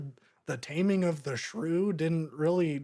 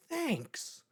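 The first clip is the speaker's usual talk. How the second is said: slow, breathy near-whisper of a sulky thanks; half-whispered sarcastic thanks; mopey kid's line; 4 semitones higher, 5 dB quieter, much slower than usual. Retold or imitated. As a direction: mumble it flat and deflated like a let-down kid. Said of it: "why he says it like that".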